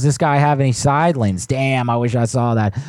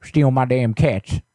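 put-on creaky old neighbor, fussy and nosy; old man voice; 3 semitones higher, faster than usual. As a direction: play a suspicious grumpy grandpa. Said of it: "anytime I use that old voice".

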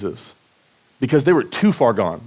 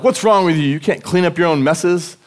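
higher, louder imitated parental telling-off; mock shaming scolding; 5 semitones higher, 3 dB louder than usual. Dad imagines shaming his son, mock scolding. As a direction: act out scolding a kid for a mess. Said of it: "I could have shamed him".

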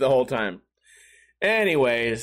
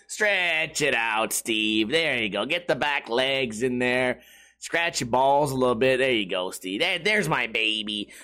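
mock baby talk; 6 semitones lower than usual. Imagined onlooker to stretching Steve, mock baby talk. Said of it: "talks to me like a baby".

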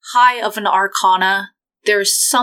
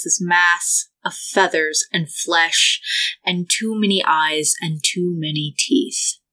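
measured, ominous scene setting; game master narration. Acted.

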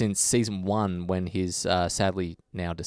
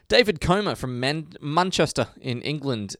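slow, badly faked Manchester accent; terrible Manchester accent; 4 semitones higher than usual. Reading out a listener's hometown, badly faked Manchester accent. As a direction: attempt a Manchester accent and miss. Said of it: "That was a terrible accent".

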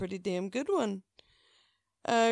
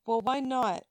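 huffy retold demand, louder and higher; mock-indignant customer pushing back; agitated huffing; 4 semitones higher, 5 dB louder than usual. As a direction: huff it out, affronted. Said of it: "she starts getting agitated and huffing".

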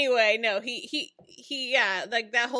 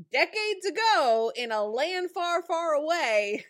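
storybook flourish; 4 semitones higher, 3 dB louder than usual. Acted. Fairy-tale phrase said for effect.

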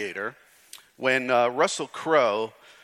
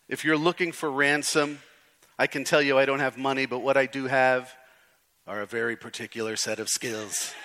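even, measured movie-threat delivery; a light attempt at an action hero's threat; Liam Neeson. Pastor quoting a film hero's ransom line, lightly imitated threat. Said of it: "Can't say it the way he does".

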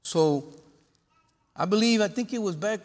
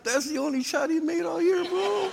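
retold retort; 10 semitones higher than usual. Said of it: "And I'm like".

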